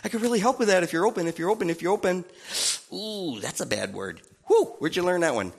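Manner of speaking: soft, gently disapproving ooh; soft Holy Spirit voice. Retold or imitated. Holy Spirit gently chiding a believer's attitude, softly. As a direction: tut kindly at a bad attitude. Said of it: "This is the Holy Spirit".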